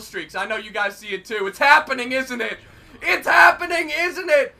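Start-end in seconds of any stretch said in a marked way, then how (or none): 1.5-2.6 laughing. Real, not acted. Repeated line, now laughing. 3.0-4.5 laughing. Real, not acted. Third take, louder laughing.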